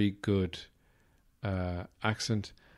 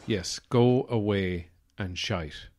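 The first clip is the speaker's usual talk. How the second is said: Irish phrase; slower than usual. Shown as a demonstration. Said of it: "is just a great phrase".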